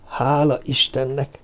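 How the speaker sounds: soft, slow sigh of relief; relieved. A narrator's reading. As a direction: breathe out your thanks, softly and slowly. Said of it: "mondta megkönnyebbülve". (megkönnyebbült, halk sóhaj)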